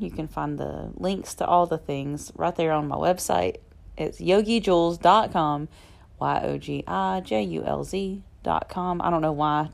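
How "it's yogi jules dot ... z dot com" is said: upbeat radio ad read; commercial voice. Acted. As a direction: announce the website like a hard sell ad. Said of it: "suddenly put on my commercial voice".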